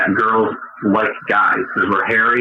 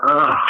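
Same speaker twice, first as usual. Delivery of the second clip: short, higher retold ugh; mock groan of disgust; 4 semitones higher than usual. Man retelling his reaction to girlfriend's fart, mock ugh. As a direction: throw out a put-on ugh. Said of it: "and I go".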